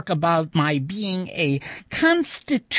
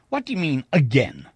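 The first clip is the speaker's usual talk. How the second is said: irritable; 3 semitones lower, faster than usual. Acted. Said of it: "I said irritably".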